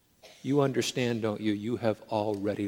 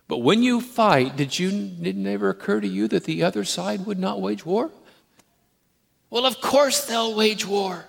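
loud, high, driving sermon climax; full-force preaching; 10 semitones higher, 10 dB louder than usual. Acted. Preacher rallying the congregation to spiritual war, at full force. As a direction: preach it hard, hammering every line.

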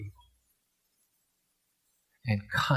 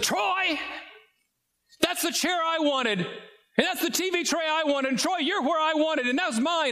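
put-on much higher, childlike voice for a small girl staking her claim; little girl voice. Little sister demanding her chair back from her brother, in a high childlike voice. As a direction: play the indignant little sister who wants her chair. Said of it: "what little kids do".

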